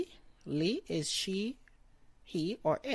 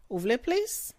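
"plus" rises high, louder, as a question; question tune; 6 semitones higher, 5 dB louder, faster than usual. Shown as a demonstration. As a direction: end "Vous voulez plus?" on a rising question lift. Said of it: "End it like a question".

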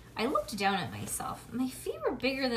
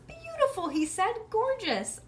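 gushing; 11 semitones higher, 4 dB louder than usual. A narrator's reading. Photographer praising.

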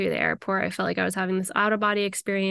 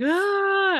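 sobbing wail; 11 semitones higher, 3 dB louder than usual. Retold or imitated. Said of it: "I just start bawling".

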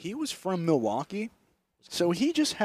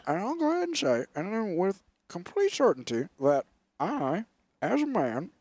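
imitating Biden; 3 semitones higher than usual. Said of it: "And he goes".

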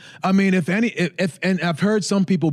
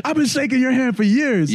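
indignant disbelief; 8 semitones higher than usual. Real, not acted. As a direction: stress "been" in shock. Repeats complaint in disbelief.

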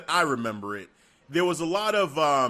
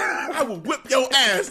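slow, louder, every word spaced; slow threat; 7 semitones higher, 3 dB louder, slower than usual. Retold or imitated. Paul Heyman threatening Adam Pearce, slow and loud. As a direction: drag out the threat. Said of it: "Like, literally like that".

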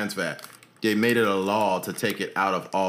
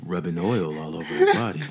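slow jams DJ voice; 2 semitones lower than usual. Shown as a demonstration. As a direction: croon it like a slow jams dedication host. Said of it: "use that nineteen seventies D J voice".

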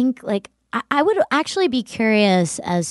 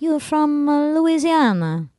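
put-on higher-pitched Italian-accented guess; Italians asking; 5 semitones higher than usual. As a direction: imitate Italians placing an accent. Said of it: "they told me I sounded like".

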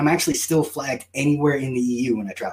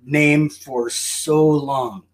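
mock lament; much slower than usual. Mock-dramatic lament, drawn out.

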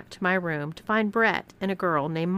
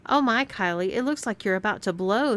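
teasing; 3 semitones higher than usual. Acted. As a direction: tease her playfully. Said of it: "teased Amanda".

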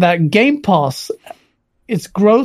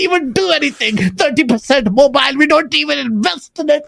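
high, lilting Indian accent impression; playful CEO impression with Indian accent; 5 semitones higher than usual. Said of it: "he wants me to do an Indian accent".

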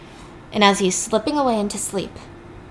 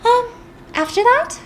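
very high, breaking into a giggle; giggly Rachel. Retold or imitated. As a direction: stall with a shrill, unhinged giggle. Rachel stalls, laughs oddly.

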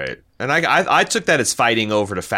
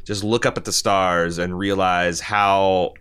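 soothing mother quote; 3 semitones lower than usual. Retold or imitated. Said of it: "she's like".

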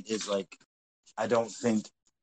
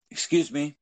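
higher, lightly voiced little old lady, polite; a lightly done prissy old lady; prim old woman; 6 semitones higher than usual. Old woman interrupting two men in the aisle, lightly mimicked. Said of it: "And she goes".

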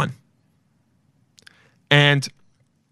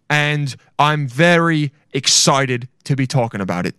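mock earnest video statement with key words punched; video announcer imitation; 2 semitones higher than usual. Imitating a man revealing a secret in a video, mock earnest. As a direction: imitate a man making a measured public announcement. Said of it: "some guy in a video that was like".

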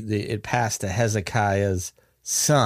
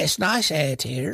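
attempted Mormon accent, a little higher; 4 semitones higher than usual. Camp newcomer greeting someone, in a put-on Mormon accent. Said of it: "my attempt at a Mormon accent".

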